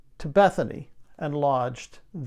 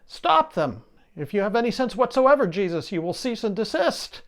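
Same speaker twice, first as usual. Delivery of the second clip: indignant demand; 5 semitones higher than usual. Acted. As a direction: snap it out like an outraged priest. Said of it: "And they are indignant".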